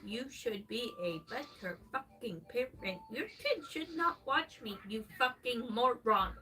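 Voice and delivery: loud hammed-up rant, spitting out the curses; angry cursing at chat. Streamer yelling at a parent in chat, loud angry cursing. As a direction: blast the chat with swearing.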